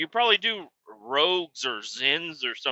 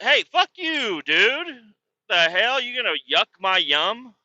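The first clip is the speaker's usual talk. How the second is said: angry outburst; 5 semitones higher than usual. Acted. Ranting at the guy.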